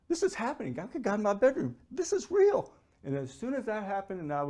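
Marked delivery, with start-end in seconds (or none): 0.1-2.7 high, loud, building exclamation; awed realisation. Retold or imitated. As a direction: exclaim it in overwhelmed amazement, peaking at the end. Retelling his excited thoughts that night.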